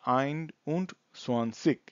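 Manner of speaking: আইনডুনজোয়ানজিগ slowly, part by part; pronunciation demo. Shown as a demonstration. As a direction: model আইনডুনজোয়ানজিগ slowly, units before tens. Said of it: "পেছনের সংখ্যাটা আগে উচ্চারণ করতে হবে". (আইনডুনজোয়ানজিগ ধীরে ভেঙে উচ্চারণ)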